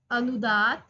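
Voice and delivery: low anudātta tone; low accent. Shown as a demonstration. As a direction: drop the voice on अनुदात. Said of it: "नीचे से उच्चारित".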